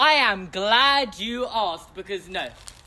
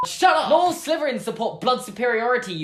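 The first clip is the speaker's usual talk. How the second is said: sharp mock outburst, higher; mock snap; 3 semitones higher than usual. Snapping back at a Slytherin commenter, mock annoyed.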